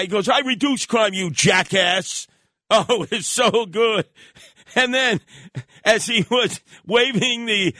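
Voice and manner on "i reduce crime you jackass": retold screaming. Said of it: "he's screaming at the guy".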